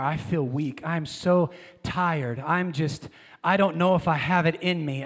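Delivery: a touch of defeated self-pity; weary complaining. Retold or imitated. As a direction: sigh it out like a worn-out believer. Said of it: "this is how we talk".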